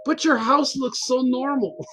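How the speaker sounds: drawn-out mild mock disbelief on "so normal"; retold bafflement. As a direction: imitate a baffled neighbor, stretching SO NORMAL. Neighbour's puzzled remark retold.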